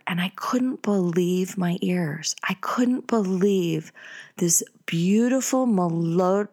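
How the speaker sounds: hushed, slow whisper in awe; awed secret whisper at the door. Retold or imitated. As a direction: breathe it like you're eavesdropping. Ear pressed against bathroom door.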